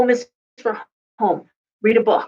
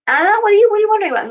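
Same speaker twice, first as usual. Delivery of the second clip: high, louder imitation of an eager client; mock client voice going much higher; client asking; 11 semitones higher, 3 dB louder, much faster than usual. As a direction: ask brightly like a curious client. Client voiced in retold reading.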